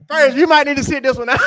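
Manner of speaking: fast, laughing jab; laughing tease. Real, not acted.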